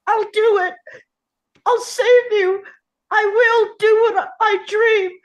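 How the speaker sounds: loud, rising resolve; shouting. Acted. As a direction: shout it into the storm. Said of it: "He shouts into the deafening noise".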